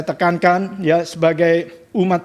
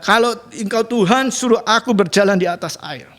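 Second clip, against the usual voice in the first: cocky challenge; 4 semitones higher than usual. Retold or imitated. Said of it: "sok jagoan".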